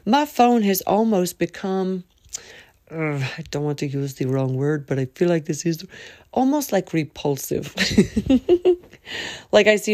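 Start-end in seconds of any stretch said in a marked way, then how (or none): 2.9-5.9 secretive murmur; whisper. Real, not acted. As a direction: lean in, hushed. Whispered aside.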